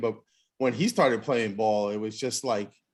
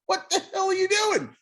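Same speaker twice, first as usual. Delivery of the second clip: mock yell. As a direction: yell at the pitcher like an angry catcher. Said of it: "and you're looking and go".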